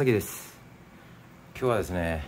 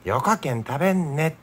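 Nagasaki dialect; 4 semitones higher than usual. Shown as a demonstration. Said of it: "よかっていうのは長崎弁ですね".

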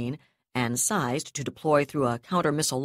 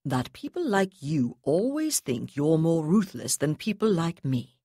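conversational. Acted. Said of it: "Terekhov asked conversationally".

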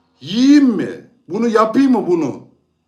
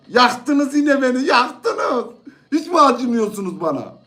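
laughing mock whine; 4 semitones higher than usual. Mock complaint at viewers' vote.

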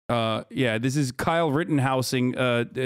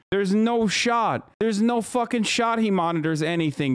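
incredulous scoff; 6 semitones higher than usual. Real, not acted. Scoffing at Biden's late-night claim.

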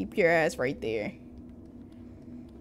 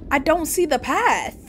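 high-pitched, mildly panicked cry; a touch of real panic; alarmed complaint; 7 semitones higher, 4 dB louder than usual. Real, not acted. Player lost in the game, alarmed complaint.

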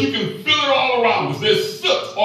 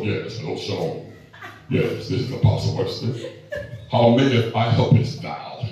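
bearded white voice; 11 semitones lower than usual. Retold or imitated. To a woman on the phone, deep and holy. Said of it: "put my bearded white voice on".

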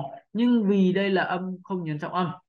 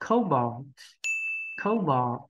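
"Cobalt" read a little faster, smoothly; a bit faster; much slower than usual. Shown as a demonstration. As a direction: run "Cobalt" together a touch quicker. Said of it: "mình đọc nhanh hơn một xíu nhá".

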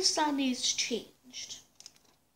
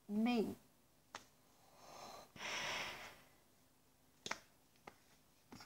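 muffled behind rubber mask; speaking through respirator filter; through a gas mask. Real, not acted. Seen 1: Full gas mask with filter worn over face throughout speech.

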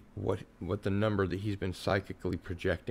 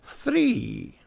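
mock scripture; 13 semitones higher, 5 dB louder than usual. Echoing the mock scripture number.

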